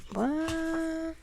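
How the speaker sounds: soft, high, drawn-out amazement; amazed disbelief. Retold or imitated. Channeler recalls her reaction to the message, softly astonished. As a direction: stretch it out high and hushed, astonished.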